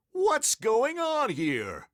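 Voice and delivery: loud, high, drawn-out principal's demand; angry demand. A narrator's reading. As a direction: demand answers like an outraged principal. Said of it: "he demanded".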